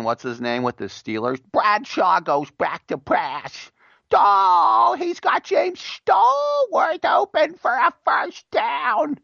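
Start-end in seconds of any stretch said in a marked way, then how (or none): 1.5-9.2 very high, slow, yelling play call; mock a screechy old football announcer; excited radio play-by-play, hammed up; sportscaster impression. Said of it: "Who was the guy, Marvin".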